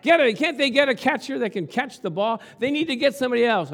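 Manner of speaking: hammed-up annoyed sports fan; mock yelling. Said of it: "She's yelling at the T V".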